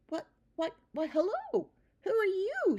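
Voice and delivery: put-on high, earnest young mouse voice; a small child mouse pleading; little mouse boy. A narrator's reading. Young mouse tells his mother, high child voice. Christopher surprised by a stranger.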